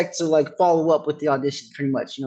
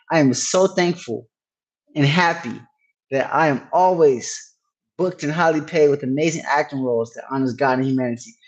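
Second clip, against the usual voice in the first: slow affirmation. Shown as a demonstration. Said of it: "I use affirmation for myself".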